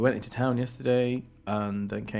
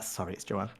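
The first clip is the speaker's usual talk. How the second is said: mock prim correction; 3 semitones lower, 10 dB quieter than usual. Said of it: "she's like".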